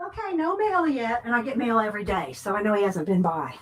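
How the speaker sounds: breathless after running; out of breath from the stairs. Real, not acted. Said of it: "I'm out of breath now 'cause I ran".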